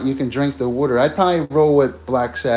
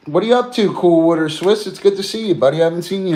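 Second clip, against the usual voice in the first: excited greeting; 5 semitones higher, 3 dB louder, faster than usual. Real, not acted. Greeting a viewer on stream.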